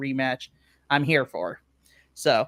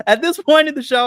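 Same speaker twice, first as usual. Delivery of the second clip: laughing; 8 semitones higher, 8 dB louder, faster than usual. Real, not acted. Laughing burst.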